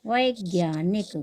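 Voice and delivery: वैज्ञानिक slowed, long वै; slow repeat. Shown as a demonstration. Teacher repeats वैज्ञानिक slowly for students. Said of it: "हो जाएगा वैज्ञानिक".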